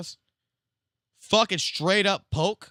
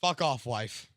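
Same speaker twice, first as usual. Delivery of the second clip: mock macho; 6 semitones lower, 5 dB quieter, slower than usual. Shown as a demonstration. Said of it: "I'll say it exactly like this".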